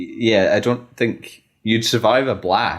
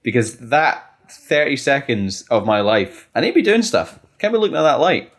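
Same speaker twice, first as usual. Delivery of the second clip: salesman voice. Pretend. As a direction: pitch it like a keen salesman. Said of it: "salesman voice on".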